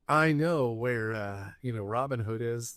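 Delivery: slow, put-on English accent; a lightly done English accent, drawn out. Podcast host voicing Will Scarlet in an English accent. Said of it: "This is my English accent is".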